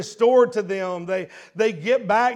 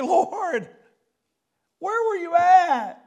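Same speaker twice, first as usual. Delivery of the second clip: desperate plea; 8 semitones higher, slower than usual. Acted. Mary's desperate plea to Jesus.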